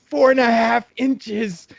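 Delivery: slow Bobo answer. Retold or imitated. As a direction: answer dead seriously. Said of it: "Bobo answering".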